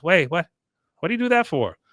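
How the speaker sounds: high, mock-bewildered protest; Con. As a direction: imitate a baffled son, pitch leaping up. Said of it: "Con then hears his mom laugh".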